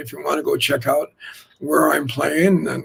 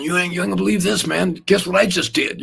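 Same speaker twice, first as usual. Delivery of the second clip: bragging; 3 semitones higher than usual. Retold or imitated. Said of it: "I was bragging".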